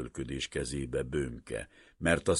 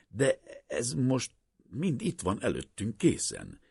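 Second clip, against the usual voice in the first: mild eager; 8 semitones higher than usual. A narrator's reading. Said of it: "lelkesült szemét ráemelte".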